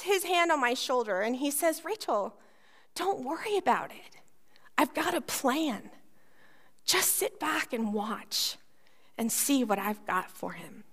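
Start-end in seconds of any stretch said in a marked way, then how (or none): 1.8-10.8 calm her down, he has a plan; reassuring dad. Retold or imitated. Dad reassures his daughter.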